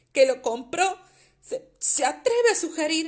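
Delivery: very loud, shrill, almost shrieking outrage. Reading a novel aloud, an outraged father answering an insult: high-pitched, almost shrieking. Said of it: "un tono tan agudo que era un, casi un chillido".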